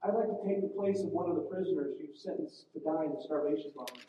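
soft, steady and calm; the priest calmly volunteering to the commandant. Retold or imitated. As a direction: offer your life without fear, gently. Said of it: "he spoke very calmly".

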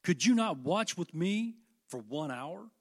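slow, loud rebuke of a sleeping friend; reproachful Jesus. Acted. Jesus rebuking Peter for sleeping, slow and loud. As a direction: press the question with disappointment. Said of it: "he said unto Peter".

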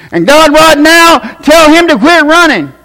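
high-pitched, fervent praying preacher; imitated altar prayer. Altar minister praying over a man with a headache, imitated fervent prayer. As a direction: pray over him like an earnest altar minister. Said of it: "the guy was up there, and he goes".

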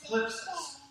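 thlipsis spoken slowly, stress on LIP. Shown as a demonstration. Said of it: "Why don't you say that with me?".

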